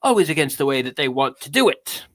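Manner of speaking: lightly theatrical, mannered reading with punched key words; grand affectation on a confessional monologue; affected accent. Acted. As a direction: read it as a self-important eccentric artist. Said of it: "this accent, this affectation".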